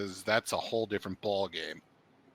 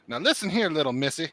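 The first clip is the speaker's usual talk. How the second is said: higher, louder patronizing Southern scold; condescending scold; 4 semitones higher, 4 dB louder than usual. Retold or imitated. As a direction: talk down to her. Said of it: "that one line that set one of my friends off".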